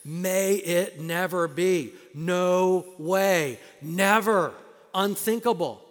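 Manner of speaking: loud emphatic never; all caps exclamation. Shown as a demonstration. Preacher thundering the text in all caps, loud. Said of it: "that's what he's saying here".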